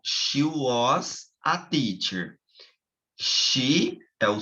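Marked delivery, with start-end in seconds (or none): 0.0-2.4 slow model statement; slow demo. Shown as a demonstration. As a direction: read it slowly for the class. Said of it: "ó".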